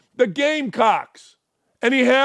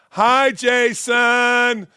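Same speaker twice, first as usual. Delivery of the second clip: slow, drawn-out mocking hello; mock sweet greeting; much slower than usual. Shown as a demonstration. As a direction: greet him with fake sweetness, very slowly. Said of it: "And I gotta tell you".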